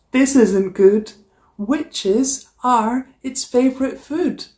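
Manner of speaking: lively storybook read-aloud; animated picture-book narration; reading to children. A narrator's reading. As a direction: read it like story time for a class. Teacher reads picture book aloud.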